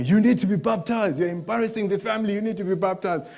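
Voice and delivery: imitated nagging father; dad threatening. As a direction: press the son like a stern dad. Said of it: "had been threatening me".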